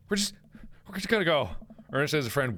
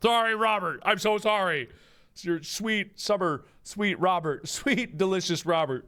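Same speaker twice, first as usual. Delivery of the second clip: fawning; 5 semitones higher, slower than usual. Acted. Fawning apology to Robert.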